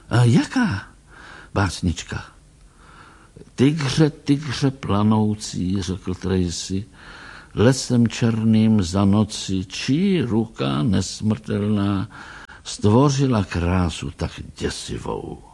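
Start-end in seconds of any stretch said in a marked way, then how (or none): 3.5-15.4 poem recital. Acted. Tracy recites Blake's tiger poem to the doctor. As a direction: recite it with weight.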